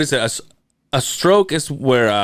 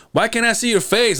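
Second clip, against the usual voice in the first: puzzled dad; 11 semitones higher than usual. Retold or imitated. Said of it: "then he goes".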